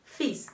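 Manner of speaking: fils said as "fis", no L. Shown as a demonstration. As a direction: drop the L in fils. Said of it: "veja que escreve F I L S, mas eu pronuncio". (fils sem pronunciar o L)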